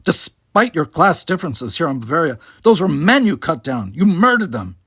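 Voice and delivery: the captain appalled, reproaching the woman. Acted. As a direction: confront her with the killing. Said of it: "appalled in spite of the situation".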